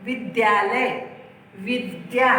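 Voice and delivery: विद्यालय with a clear half द gliding into य; careful द्य. Shown as a demonstration. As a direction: say विद्या as vid-ya, not vidha. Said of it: "इसको ध आप मत बोला करो".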